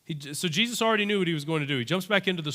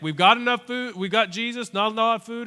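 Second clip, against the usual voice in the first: higher, louder protest; exasperated Andrew; 6 semitones higher, 4 dB louder than usual. Retold or imitated. Andrew protesting to Jesus, higher and louder. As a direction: push back hard.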